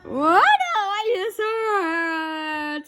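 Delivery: high slow whimper; pained cry. Acted. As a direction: cry out in mock pain. Bird hits him.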